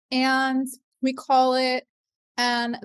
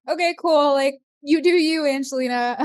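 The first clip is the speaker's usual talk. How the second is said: louder, brushing-off okay cool; mock dismissive; 3 semitones higher, 3 dB louder than usual. Skeptic friend humoring Angelina's psychic idea, breezy and dismissive. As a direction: humor her with a breezy shrug in the voice. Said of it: "She'll be like".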